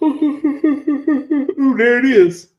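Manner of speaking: laughs out a high ooh; laughing. Real, not acted. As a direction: laugh as you find it. Laughing find.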